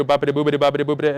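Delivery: nonsense chatter of a car radio; imitated radio babble. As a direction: babble like a radio left playing. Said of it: "just hear the radio".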